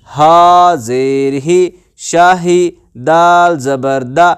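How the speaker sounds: measured chant with drawn-out letter names; teacher leading a syllable drill; spelling drill recitation. Shown as a demonstration. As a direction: recite each letter and vowel steadily, then join them.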